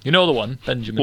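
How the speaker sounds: put-on northern historian's aside; northern accent. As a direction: confide it as a matey northerner. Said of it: "Why is he northern?".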